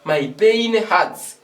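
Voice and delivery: very slow drilled phrase; slow model phrase. Shown as a demonstration. Teacher drilling the right phrase slowly for the class. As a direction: stretch each word for the learners. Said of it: "tu peux dire encore".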